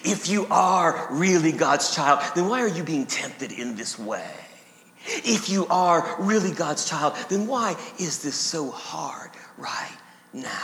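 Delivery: slow insinuation, fading low at each end; slithering accuser. Acted. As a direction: press the doubt slowly, then sink to a hush. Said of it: "with his same slithering questions".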